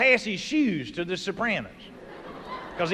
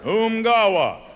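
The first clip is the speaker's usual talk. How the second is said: umgawa; 4 dB louder, slower than usual. Retold or imitated. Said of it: "that's a good word".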